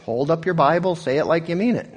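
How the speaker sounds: a mild send-up of a stadium preacher; mock preacher exhortation. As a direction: ham up the hype-man preacher call. Pastor echoes the preacher in the clip.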